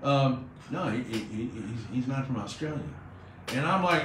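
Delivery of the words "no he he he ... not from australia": softer, stammering polite objection; tentative, courteous caller, voice lowered; polite correction. Retold or imitated. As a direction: gently retell a hesitant correction. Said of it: "you're being polite".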